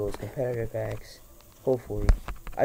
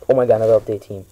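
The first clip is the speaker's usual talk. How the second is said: shrieking jackpot winner; 10 dB louder, much faster than usual. Real, not acted. Another big pull, yelling.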